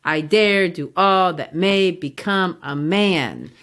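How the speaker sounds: slow, even da-DUM weight on each second beat; measured iambic line. Shown as a demonstration. Teacher reading Macbeth's line to contrast the meter, slow. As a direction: read it slowly, like a steady heartbeat. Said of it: "compare that as opposed to".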